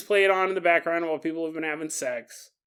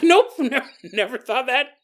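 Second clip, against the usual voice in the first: higher, laughing, louder listener's denial; laughing mock denial; 7 semitones higher, 6 dB louder than usual. Listener laughing off the idea, laughing. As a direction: scoff it off through laughter. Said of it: "You're like".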